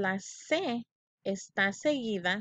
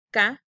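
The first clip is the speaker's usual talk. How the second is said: "Ca-ba-yo" louder, each syllable apart; loud syllable split; 7 dB louder than usual. Shown as a demonstration. Teacher leading kids to repeat the syllables. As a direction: call out "Ca-ba-yo" beat by beat for the kids to echo. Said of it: "Repite conmigo".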